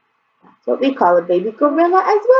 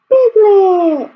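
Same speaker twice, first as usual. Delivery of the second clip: piglet said high and a bit louder; louder demo; 10 semitones higher, 5 dB louder than usual. Shown as a demonstration. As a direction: announce Piglet brightly. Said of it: "Can you say piglet?".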